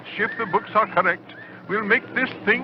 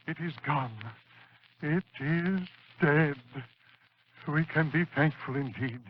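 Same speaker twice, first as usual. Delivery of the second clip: hushed relief; 6 semitones lower, 9 dB quieter than usual. Acted. After the monster's death, awed relief.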